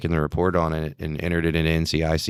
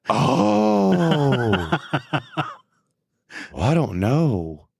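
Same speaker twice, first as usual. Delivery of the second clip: laughing it out; 9 semitones higher, much slower than usual. Retold or imitated. Renix realising what it is.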